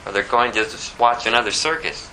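ordinary delivery

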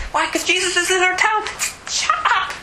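very high, snippy shush; crowd hushing him. Acted. Crowd silencing the beggar, very high snap. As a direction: shut him up fast. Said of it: "many charged him that he should hold his peace".

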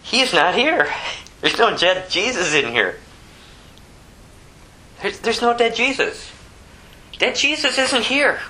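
a high, ringing proclamation as the angel; angel's proclamation. Acted. Preacher voices the angel's announcement.

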